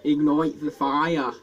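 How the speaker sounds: slow British take on the phrase; own British accent. Shown as a demonstration. Answering friend's mock accent, slow British accent. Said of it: "my accent is better than yours".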